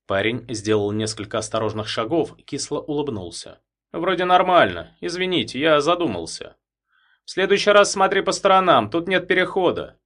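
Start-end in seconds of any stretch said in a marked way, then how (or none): 3.9-6.6 put-on young man voice. A narrator's reading. 7.2-10.0 warning. A narrator's reading. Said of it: "предупредил Сорокин".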